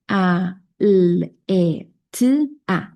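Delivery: "a, l, e, t, a" dicho fonema por fonema, con pausas; sonidos sueltos. Shown as a demonstration. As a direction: marca cada sonido aislado de "paleta". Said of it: "te voy a decir los sonidos". (deletreo fonético de "paleta" para el niño)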